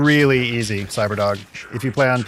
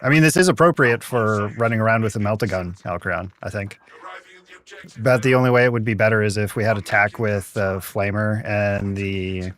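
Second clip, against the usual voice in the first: dreadnought voice mod. Real, not acted. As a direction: talk like a war machine. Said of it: "got it to sound like a dreadnought".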